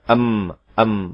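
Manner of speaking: "em" said as two sounds, a vowel and then m; the wrong way: "em" instead of a pure hum; wrong "em" demo. Shown as a demonstration. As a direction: say "em" with the vowel first to show the mistake. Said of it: "em itu dua bunyi".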